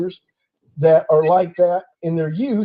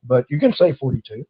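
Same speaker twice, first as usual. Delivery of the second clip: retold calm, softer and lower to the officer; 5 semitones lower, 3 dB quieter than usual. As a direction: keep it level and unruffled, no edge. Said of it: "I just very calmly said".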